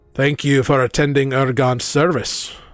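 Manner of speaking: gruff-voiced elf. Game narrator voicing an elf who stops the player at a grave, gruff voice. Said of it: "you hear a gruff voice".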